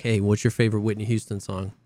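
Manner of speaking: lightly voiced buddy, deadpan; imitating Geeks. Friend imitating Geeks asking a stranger on voip, a bit low. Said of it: "He's like".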